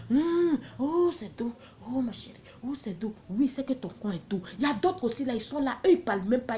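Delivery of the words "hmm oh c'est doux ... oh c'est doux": quiet moaning man. Retold or imitated. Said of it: "ils n'aiment pas trop parler".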